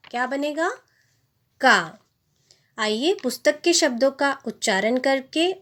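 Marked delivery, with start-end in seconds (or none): 1.6-2.0 का with a long aa, pitched lower; a full, falling का with open aa; long vowel. Shown as a demonstration. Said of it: "क में अगर आ की मात्रा मिलेगी".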